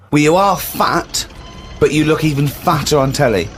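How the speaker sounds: slow, deadpan builder's insult; slow blunt builder. Retold or imitated. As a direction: drag out the builder's put-down slowly. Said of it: "So he went with".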